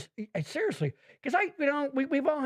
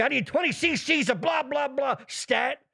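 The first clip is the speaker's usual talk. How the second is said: higher, urgent mock doctor order; hammed-up medical urgency; TV emergency room talk; 5 semitones higher than usual. Shown as a demonstration. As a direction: call it out like a TV ER doctor. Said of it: "the fast-paced emergency room talk".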